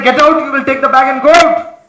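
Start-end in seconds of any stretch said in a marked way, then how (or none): 0.0-0.4 father's order. Retold or imitated. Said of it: "your father scolds you and say".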